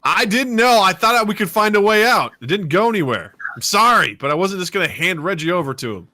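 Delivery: loud, high-pitched arguing; defensive protest. Acted. Brandon defends himself to his companions, heated protest. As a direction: protest hotly, voice pushed up.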